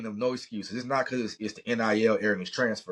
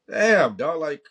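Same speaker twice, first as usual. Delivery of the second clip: exasperated outburst; 7 semitones higher, 5 dB louder, slower than usual. Real, not acted. Exasperated outburst about the loss.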